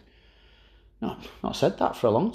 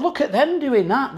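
mocking; 12 semitones higher than usual. Mocking rival fans.

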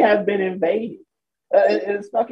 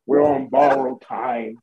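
mock solemn quote; 5 semitones lower, slower than usual. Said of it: "like he was lowering a casket".

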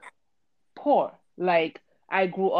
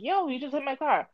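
flat deadpan; 6 semitones higher, 4 dB quieter than usual. Shown as a demonstration. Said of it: "That's how, I'm like".

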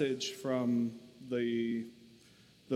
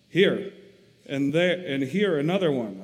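louder, rising wail of dismay; 2 semitones higher, 7 dB louder than usual. Acted. Corrie pointing out fleas to Betsy, loud dismayed wail. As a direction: cry out each spot in dismay. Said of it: "I wailed".

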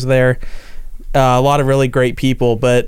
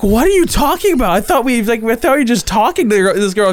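laughing while quoting; 7 semitones higher than usual. Retold or imitated. Quoting teammates, still laughing.

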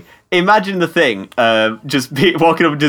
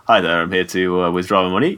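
lightly voiced customer, low and softer; hint of a low-voiced, meek customer; bank customer; 8 semitones lower, 3 dB quieter than usual. Skinny fake hero asking the bank for money, lightly voiced customer.

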